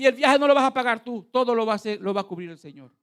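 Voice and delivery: high, loud prophetic promise; prophet's proclamation. Retold or imitated. Preacher imitates the man promising a paid journey, loud proclamation. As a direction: declare it firmly as a prophet. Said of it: "Me dice".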